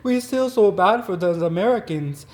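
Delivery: put-on a failed stab at a German accent; bad German accent. Mocking the neighbors in a bad German accent. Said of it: "I can't do a German accent".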